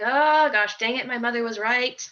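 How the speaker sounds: laughing defeat at mom being right; laughing admission. Retold or imitated. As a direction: give in with a laugh. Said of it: "and I'm like".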